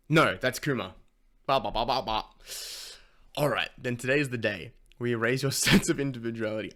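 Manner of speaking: loud and animated. Real, not acted. Loud excited reaction and reading.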